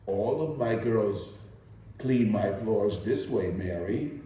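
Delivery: smooth, soft, velvet-glove firmness; said gently. Acted. Employer gently insists the maid scrub on her knees, soft and gentle. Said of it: "she said gently".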